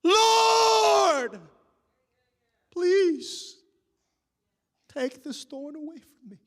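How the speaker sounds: high, loud desperate cry of Lord. Acted. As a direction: cry out to God in despair. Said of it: "He comes back a third time".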